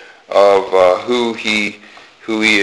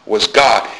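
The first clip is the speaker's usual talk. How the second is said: short "was", weight on "God"; stress on God; 3 semitones lower than usual. Shown as a demonstration. Preacher repeating John's ending, stress on "God". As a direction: let "was" go by and land on "God". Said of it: "He doesn't place emphasis upon was".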